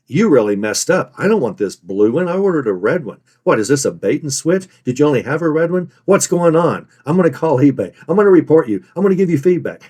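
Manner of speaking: mildly indignant complaint, rising toward the threats; mock customer rant, pitch climbing at the end; angry buyer. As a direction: act out an irritated customer, building. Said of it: "let's say that this was an angry buyer".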